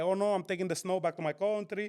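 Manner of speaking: put-on light Dominican-accented English; a hint of a Dominican accent, deadpan. To his girlfriend in the snow, lightly Dominican-accented. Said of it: "the accent came out".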